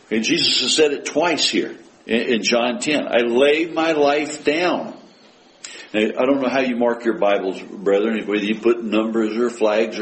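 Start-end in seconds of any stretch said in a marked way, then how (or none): 3.1-5.0 "I lay my life down" slow and higher; emphatic quote. Acted. Preacher quoting Jesus in John ten, slowly emphatic "I lay my life down". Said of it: "how emphatic Jesus is being".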